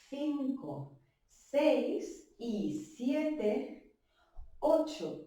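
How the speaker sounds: slow dance count with long gaps. Shown as a demonstration. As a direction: stretch out each number, leaving room for the step. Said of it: "Lo hacemos un poquito más lento".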